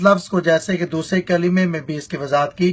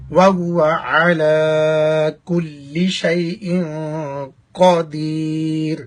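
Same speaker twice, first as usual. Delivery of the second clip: slow, measured Arabic recitation; much slower than usual. Shown as a demonstration. Teacher reciting the kalima for students, slow measured recitation. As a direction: recite each phrase slowly and deliberately.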